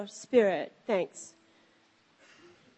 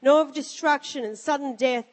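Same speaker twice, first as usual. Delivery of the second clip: scripture reading. Acted. Reads scripture aloud.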